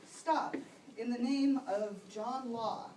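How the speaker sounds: loud, slow stop order; cop's command. Acted. Cop ordering the suspect to freeze, loud and slow. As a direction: halt him like a beat cop.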